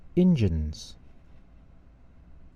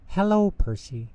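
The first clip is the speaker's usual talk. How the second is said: high little peep of a greeting; 9 semitones higher than usual. Acted. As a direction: chirp it high and bright like a small engine. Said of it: "peeped Thomas".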